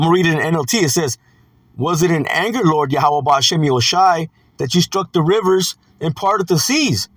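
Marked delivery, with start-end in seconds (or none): 1.8-7.1 scripture reading. Acted. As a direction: read the question out in measured phrases. Reads scripture aloud.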